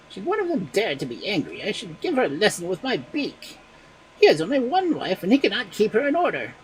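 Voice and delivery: high, boastful rooster voice; cocky rooster. Acted. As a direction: crow it out like a strutting cock. Cock speaks in story.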